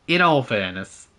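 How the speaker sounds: slow, drawn-out attempt at Welsh; imitated Welsh accent. Shown as a demonstration. Gamer practising his friend's catchphrase, slow Welsh accent. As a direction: stretch it out in a put-on Welsh accent. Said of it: "I'm struggling with his accent".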